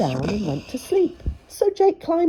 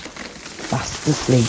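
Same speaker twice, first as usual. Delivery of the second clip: sleepy whisper; 4 semitones lower, much slower than usual. A narrator's reading. Giant falls asleep.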